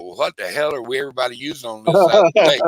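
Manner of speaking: loud, fast, exasperated question; retold demand. People round the lake want the bait, loud retold demand. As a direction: build to a high, loud demand.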